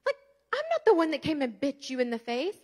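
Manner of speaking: loud, high, furious scolding; angry yelling at daughter. Retold or imitated. Mother yelling at her daughter, furious and loud. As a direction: yell it in her face, outraged. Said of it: "I stormed in that room".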